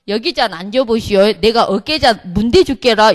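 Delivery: Jeolla dialect, a touch amused; lightly voiced Jeolla grandma offering a massage. Deaconess offering the owner a massage, in Jeolla dialect. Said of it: "전라도 사투리인데요".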